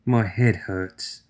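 soft, very slow and tearful. Acted. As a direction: barely get the words out. Fiona sobbing after outburst.

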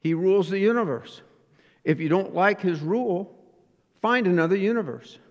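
lightly imitated Southern drawl; old Baptist preacher with a touch of Southern drawl; J. Vernon McGee. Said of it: "in his Southern drawl, used to go".

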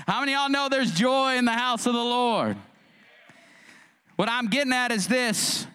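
impassioned, declarative sermon delivery; preach. Real, not acted. Preacher tells congregation of hope of heaven, impassioned preaching. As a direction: lift out of the joke into full preaching voice. Preaches at full force after joke.

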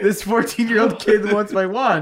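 mock Watcher. Narrator mocking Watcher giving away the wand. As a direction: hand it over with a shrug. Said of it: "He's like".

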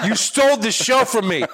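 high, slow heckler's complaint; mock heckle yell. Comic replaying his planted heckle from the back, mock yelling. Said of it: "just yell something out".

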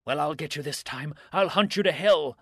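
put-on loud, high drunken rant; drunken shouting. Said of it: "his drunken voice rumbled off into obscenities and oaths".

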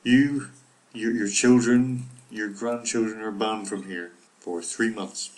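half-hearted stern museum guard; imitating Simpsons character. Quoting The Simpsons to cohost, mock stern ban. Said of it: "He says to Lisa".

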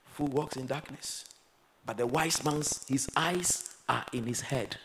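quiet, slow, with "Fool" said gently; hushed reflective repeat; soft restatement. Acted. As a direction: drop it to a soft slow echo. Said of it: "soft repeat".

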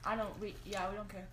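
talking through a mouthful of fries; chewing noisily. Real, not acted. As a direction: chew while you talk. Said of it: "Now you're gonna hear a lot of chewing".

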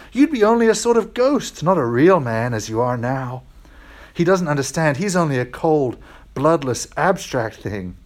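lightly voiced sly creature, coaxing; a touch of a smooth tempter lizard whispering promises; wheedling lizard. Lizard coaxing the ghost to spare it, sly and wheedling.

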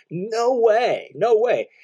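"No way, no way" pitched high with force; emphatic no way. Shown as a demonstration. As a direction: throw out a strong, emphatic "No way". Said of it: "It's really a strong, emphatic".

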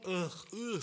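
repeated mock groans of disgust; disgusted "ugh". Disgusted at his own crude joke, mock-grossed-out groans.

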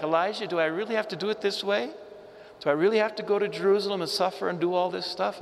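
pleading Jesus. Retold or imitated. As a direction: rattle it off like a worried friend asking a favour. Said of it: "He's probably saying something like".

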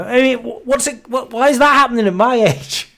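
high, disbelieving with a laugh; baffled half-laugh at own bad luck; incredulous. Real, not acted.

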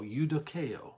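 "eudokeo." as yoo-doh-KAY-oh, falling; careful Greek "eudokeo."; Greek word said carefully. Shown as a demonstration. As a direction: say "eudokeo." plainly and clearly. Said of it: "E U D O K E O".

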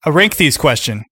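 abrupt challenge to the co-host; aggressive. Real, not acted. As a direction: throw the question back pointedly. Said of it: "Wow, that was aggressive".

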